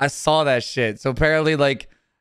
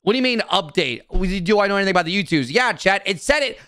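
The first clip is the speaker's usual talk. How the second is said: high, emphatic, fed-up answer; exasperated; 6 semitones higher than usual. Real, not acted. Streamer answering chat about the U twos, exasperated. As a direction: spell it out with swooping, exasperated emphasis. Fed up with chat's repeated question.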